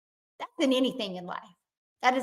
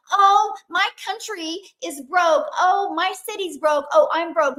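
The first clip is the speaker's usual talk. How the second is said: higher, slow, self-pitying mock whine; mock the complainers with a whiny voice; mock victim whine; 5 semitones higher, 4 dB louder than usual. Mocking people with a victim mentality, higher slow whine. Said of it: "be a victim".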